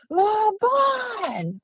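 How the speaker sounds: sudden high yell of the name; loud call of a name. Retold or imitated. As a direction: call out sharply to grab attention. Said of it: "like that, really loud".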